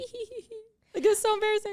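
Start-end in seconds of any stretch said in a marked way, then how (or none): 0.0-0.5 high, soft silly giggling hee-hee; mock giggle. Unable to twerk on video, covering with high silly giggles. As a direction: squeak out tiny fake giggles. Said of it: "I'm just gonna be like".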